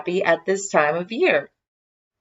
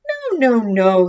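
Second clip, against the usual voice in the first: kindly reassuring; 5 semitones higher, 6 dB louder than usual. Acted. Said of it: "said Santa in a kindly voice".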